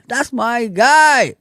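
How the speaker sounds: slow and loud, stretching guy; drawn-out praise. Real, not acted. Praising a chat viewer, slow and loud. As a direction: savour each word like a shout-out.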